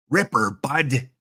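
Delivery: put-on Southern US twang, drawn out; slow it into a Southern accent; lightly played Southern drawl. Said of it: "Sound like I'm from the southern states".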